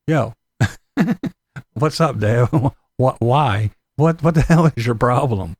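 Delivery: lightly voiced laughing kids; mild laughing kid voice; imitating kids, laughing. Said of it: "these kids are gonna watch".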